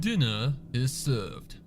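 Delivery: slow, formal butler announcing dinner; butler announcement. Acted. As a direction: announce it grandly, slowly. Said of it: "Prim announced".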